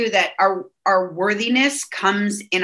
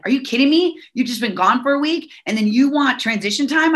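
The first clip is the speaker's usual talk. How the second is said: raised, incredulous retort; mock indignation, pitched up; pissed; 4 semitones higher than usual. Wife snapping back at husband home from a week away, indignant. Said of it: "at first I was pissed".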